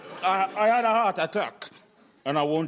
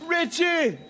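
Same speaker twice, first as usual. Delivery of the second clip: excited greeting; 10 semitones higher than usual. Acted. Grandad greets grandson loudly.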